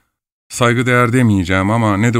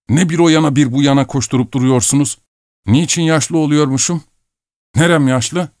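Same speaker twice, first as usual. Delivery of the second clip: indignant; 5 semitones higher than usual. Acted. Quarrel over being called old.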